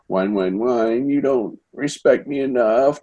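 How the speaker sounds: lightly voiced whiny complaint; imitating a petulant daughter, slow; mock whining. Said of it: "Zoe whines more about her father".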